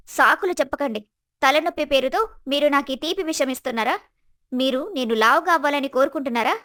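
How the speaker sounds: mildly heated accusations; acted indignant complaint; harsh, insulting. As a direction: accuse with a touch of scorn. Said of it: "స్వప్న యొక్క కఠినమైన, అవమానకరమైన మాటలు".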